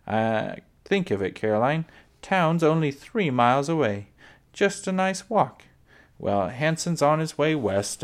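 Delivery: proud and pleased, showing off the claim; cheerful father voice. Acted. Pa speaks cheerfully to Ma.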